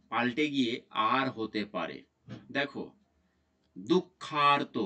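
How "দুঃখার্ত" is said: দুঃখার্ত drawn out slowly with a long "aar"; "aar" sound shown. Shown as a demonstration. Teacher showing students an exception, "aar" sound shown. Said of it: "কিছু শব্দের ক্ষেত্রে আর হয়েছে".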